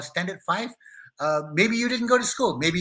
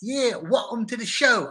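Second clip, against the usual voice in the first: put-on a loose, made-up stab at a Bristol accent, pitched up; 5 semitones higher, 4 dB louder, slower than usual. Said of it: "I don't even know if they talk like this in Bristol".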